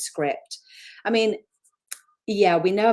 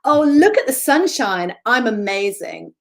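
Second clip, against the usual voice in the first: high, louder sugary cheer; mock Pollyanna; 3 semitones higher, 6 dB louder than usual. Mocking a forced optimist on the podcast, high and gushing. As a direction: gush like a naive optimist. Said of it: "some sort of Pollyanna".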